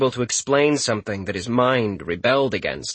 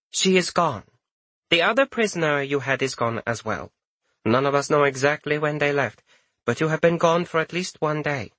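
lightly higher, cool report; professional detachment; 4 semitones higher than usual. Acted. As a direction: report it coolly, no feeling. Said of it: "Her tone was one of professional detachment".

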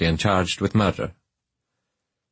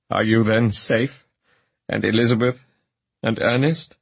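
higher, anxious eager questions; eager cry; 4 semitones higher than usual. A narrator's reading. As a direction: reach out and ask urgently for news. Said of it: "I stretched out my hand to him and cried".

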